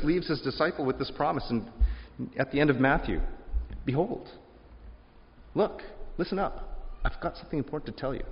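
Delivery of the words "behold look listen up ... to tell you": hushed confiding. Acted. Jesus telling his disciples a promise, hushed and confiding. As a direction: lean in and share a secret.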